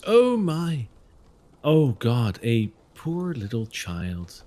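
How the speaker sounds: lightly voiced concerned woman, ending in a hush; a hint of a kindly stranger; Bella voice. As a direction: coo over a lost child, then soften to a near whisper. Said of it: "Bella steps out".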